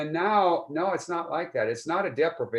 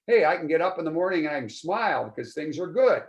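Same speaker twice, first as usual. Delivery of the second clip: mildly upbeat morning voice; good mood; 3 semitones higher, 3 dB louder than usual. Retold or imitated. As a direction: lightly act out waking up glad. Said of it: "to have your mood back".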